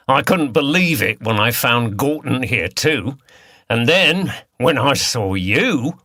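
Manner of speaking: lightly voiced Cockney villain; a hint of Cockney, harsh and taunting; Cockney accent. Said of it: "He spoke in a Cockney accent".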